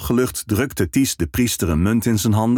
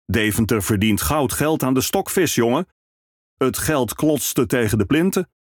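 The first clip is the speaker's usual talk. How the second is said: hearty ferryman; 3 semitones higher than usual. Acted. Ferryman tells the minstrel about Hanze trade, hearty and lively. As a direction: boast a little about Deventer's riches.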